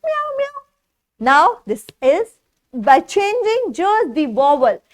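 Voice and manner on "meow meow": high, soft kitty meow; cat meow. Pretend. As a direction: play the kitten for the child. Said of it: "What sound does a cat make?".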